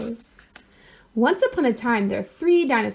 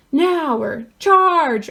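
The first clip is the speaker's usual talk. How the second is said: yell; 5 semitones higher, 4 dB louder, much slower than usual. A narrator's reading. Dinosaurs yelling.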